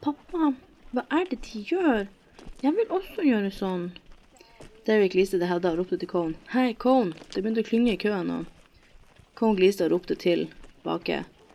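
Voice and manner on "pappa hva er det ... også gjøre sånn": put-on high, sing-song, babyish toddler voice. Reading a story, a woman looks up at a man and speaks in a baby voice. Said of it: "sa med babystemme".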